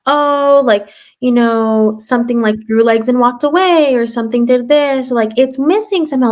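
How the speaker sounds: put-on cutesy kid talk. Telling the class how teachers soften it, cutesy sing-song. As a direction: sweeten it like talking to small children. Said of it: "we say, like".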